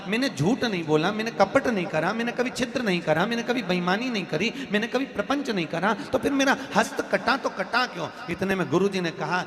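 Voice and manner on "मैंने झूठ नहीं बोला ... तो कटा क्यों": high, insistent run of denials; acted aggrieved outcry; anguished protest. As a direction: plead your innocence to your guru, building higher. Disciple protests to his guru.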